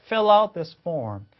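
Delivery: "Fill out this form" slow, fil-lout joined; linking model. Shown as a demonstration. Teacher asking learners to copy, "Fill out this form" linked. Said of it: "그대로 따라하게 해보세요".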